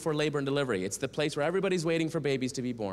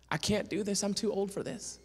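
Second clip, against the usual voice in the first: higher-pitched imitation of a distraught Texan woman; Southern Texas accent; 6 semitones higher than usual. Distraught Miss Annette phoning him, Southern Texas accent. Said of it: "Southern Texas accent".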